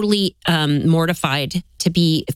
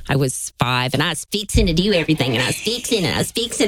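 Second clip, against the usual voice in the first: put-on lightly twanged Texas Southern accent; 2 semitones lower than usual. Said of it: "I do have a Southern accent".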